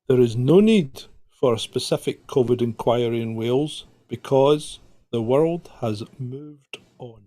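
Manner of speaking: lightly voiced stern politician, slowing down; a hint of a solemn official; Harold Bishop voice. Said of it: "speak to you as Harold Bishop".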